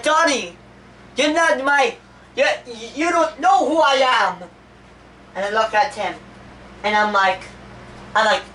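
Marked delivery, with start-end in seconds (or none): 0.0-4.4 imitated friend, pitched way up; high-pitched mock confrontation. Friend confronts Donnie at school lunch, high mock-challenging voice. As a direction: put on a high, insistent quoted voice.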